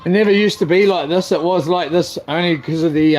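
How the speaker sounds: normal talking voice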